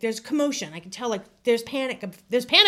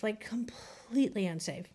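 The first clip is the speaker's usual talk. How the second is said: soft unvoiced whisper of it; whispered repeat; 10 dB quieter than usual. Real, not acted. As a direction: breathe it out as a whisper.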